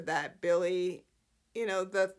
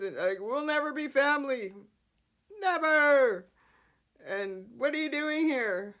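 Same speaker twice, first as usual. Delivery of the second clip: indignant refusal; 5 semitones higher than usual. Retold or imitated. Jack rejecting Billy angrily.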